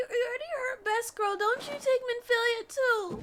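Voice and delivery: shouting through tears, fast then pleading; tearful shout at the villain, don't take her; crying plea. Real, not acted. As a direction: beg the villain through real sobs.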